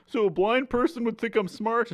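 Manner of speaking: high-pitched dopey question; hammed-up high dumb-guy voice; dim Joey. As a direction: ask it like a clueless sitcom character. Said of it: "assume you're dumb".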